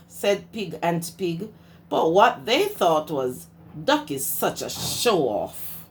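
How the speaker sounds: lively storybook read-aloud; reading to children. A narrator's reading. Teacher reading Duck on a Bike to her class, lively storytime voice.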